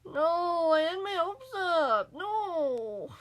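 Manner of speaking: high, loud, panicked wail; panicked crying out. Real, not acted. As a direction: cry out in real panic. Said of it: "I'm just panicking".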